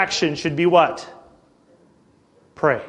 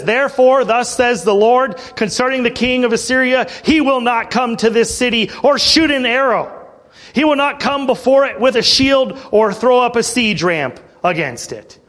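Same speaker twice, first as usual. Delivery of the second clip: raised, declaring; proclamation; 3 semitones higher than usual. Acted. God's answer to King Hezekiah, bold proclamation. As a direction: announce God's promise boldly.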